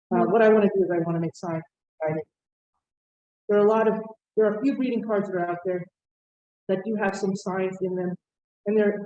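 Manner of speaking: muffled behind a face mask; through a face mask. Real, not acted. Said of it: "I'm speaking through a mask".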